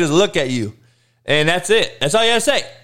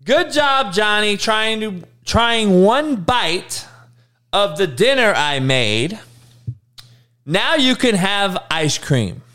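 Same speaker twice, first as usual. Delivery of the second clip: lightly mocking coddling parent, drawn out; gentle modern parent; 3 semitones higher than usual. Parent rewarding little Johnny for one bite, mock gentle parent. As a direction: praise slowly, like an indulgent parent. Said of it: "repeat what the parents now say".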